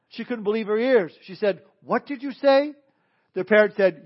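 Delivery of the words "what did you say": high, rising disbelief; shocked. Acted. Woman insulted by a parrot asks back, shocked. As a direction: ask it as if unable to believe your ears. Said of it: "The woman was shocked".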